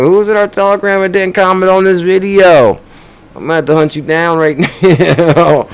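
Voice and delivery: focused Bullzilla voice. Acted. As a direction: play a hammed-up menacing persona hunting down viewers. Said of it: "you know Bullzilla's focused when he's talking like that".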